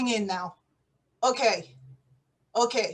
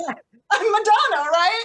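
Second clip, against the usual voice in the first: nervous laugh. Pretend. Spy laughs off a slip.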